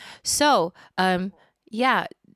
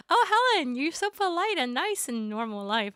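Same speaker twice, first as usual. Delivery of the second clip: higher, gushing host voice; a light mock gushing host; imitating show hosts; 8 semitones higher than usual. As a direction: mimic the polite hosts. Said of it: "They were like".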